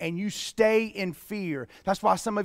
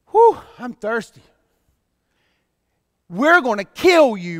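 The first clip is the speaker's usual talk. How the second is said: mock threat; 3 semitones higher, 8 dB louder than usual. The mob voiced threatening Moses.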